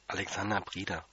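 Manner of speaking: name said small and soft, too quietly; timid answer. Retold or imitated. Boy answering the janitor timidly and too softly. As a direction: mumble your name shyly to the janitor. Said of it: "Also hab ich's nochmal gesagt".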